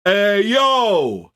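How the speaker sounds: high voice laughing into a cheerful greeting; a laughing, loose hello; mock laughing caricature. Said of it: "Black people be like".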